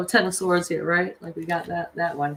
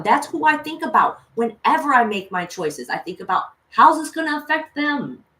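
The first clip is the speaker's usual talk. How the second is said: heated, raised venting; angry rant; 3 semitones higher than usual. Real, not acted. Mother ranting to viewers about her options, bitterly angry. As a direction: spit out the frustration. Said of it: "what I'm most pissed off about".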